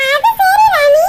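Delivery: high, loud cut-in; loud, high interruption; sharp shout. Acted. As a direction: shout her down to take over. Neighbour cuts in sharply.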